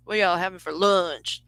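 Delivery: slight Southern accent, only in the vowels; subtle Southern accent. Shown as a demonstration. Demonstrating the accent with a lunch question, subtle Southern. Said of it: "it's in the lower vowels, so it'd be like".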